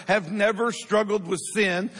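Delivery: "never" pushed out with firm emphasis; stress on never. Real, not acted. Preacher repeating the question to the church, "never" emphasized. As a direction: punch the word "never". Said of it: "I emphasize the word never".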